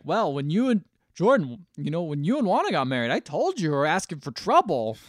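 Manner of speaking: lightly acted I-told-you-so lecture; mildly exasperated, punching the key words; scolding dad. Dad lectures Jordan about his marriage, mildly scolding.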